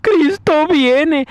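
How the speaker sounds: high, drawn-out imitation of weeping preachers; hammed-up crying plea, stretching every word; mock tearful wailing. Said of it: "están llorando y diciendo".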